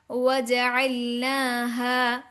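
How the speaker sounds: slow, stretched tajweed demo; measured chant; Quranic recitation. Shown as a demonstration. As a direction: articulate slowly, holding the long vowels.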